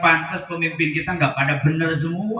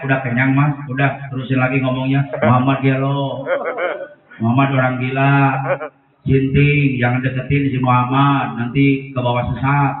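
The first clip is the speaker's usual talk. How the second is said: jeering blind man; 2 semitones lower than usual. Acted. Blind man resumes insults.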